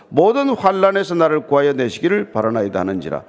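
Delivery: firm, continuous congregational recitation; scripture reading. Acted. Pastor leading the congregation through David's answer, scripture reading.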